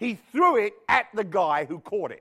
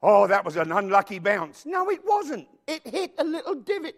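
louder mock complaint about the bounce; mock shout; 5 dB louder than usual. Preacher mocking a sore loser, loud mock shout. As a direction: yell the excuse like a sore loser.

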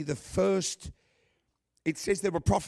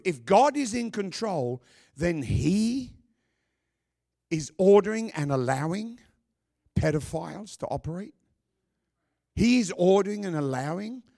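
loud, raised sermon building in force; preaching at full force; 3 semitones higher, 4 dB louder than usual. Acted. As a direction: hammer the point to the congregation.

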